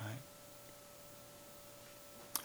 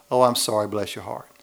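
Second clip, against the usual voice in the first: sympathy; 5 dB louder than usual. Retold or imitated. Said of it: "We all know what that means in the South".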